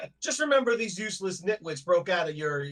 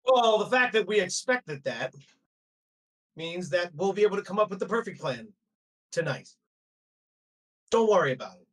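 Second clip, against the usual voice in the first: Devonian challenging; 3 semitones higher than usual. Acted. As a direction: push back with confident swagger. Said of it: "Devonian goes".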